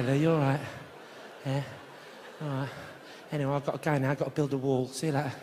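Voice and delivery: very low, monotone Cockney small talk; friendly Cockney words with a quiet threat underneath; low Cockney heavy making polite chat; menacing friendly Cockney. Acted. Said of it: "someone's got that Cockney accent".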